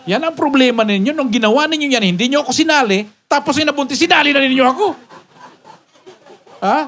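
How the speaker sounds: exasperated, rising comic reproach; mock scolding. Pastor chiding members who confess too late, mock scolding.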